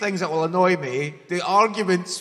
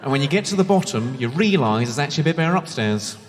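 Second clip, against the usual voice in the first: lower-pitched mock Southern English lilt; Southern English accent; 4 semitones lower than usual. Shown as a demonstration. Comic demonstrating the rhythm to Londoners, imitated Southern English accent. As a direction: lightly imitate Southern English, lifting at the end. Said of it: "do a Southern English accent".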